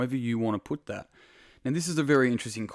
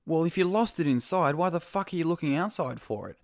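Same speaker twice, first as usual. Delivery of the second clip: pitched up, incredulous mate asking the obvious; exasperated neighbor; 6 semitones higher than usual. Retold or imitated. Neighbor baffled his mate searches outside, exasperated disbelief. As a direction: let disbelief lift the question.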